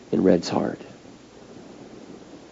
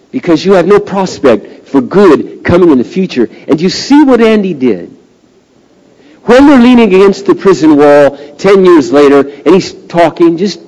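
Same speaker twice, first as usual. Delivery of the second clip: raised pulpit voice; impassioned preaching; 6 semitones higher, 4 dB louder than usual. Real, not acted. Preacher telling listeners about hope for the future, impassioned preaching. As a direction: press the point home at a higher pitch.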